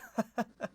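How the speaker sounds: small high-pitched nervous titter; high, uneasy little laugh; nervous giggle. Acted. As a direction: giggle nervously, keep it light. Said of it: "giggles kind of like, um, nervously".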